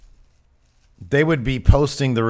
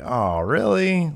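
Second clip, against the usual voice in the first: slow disappointed surprise; 7 semitones higher, much slower than usual. Retold or imitated. Reacting to spoiler.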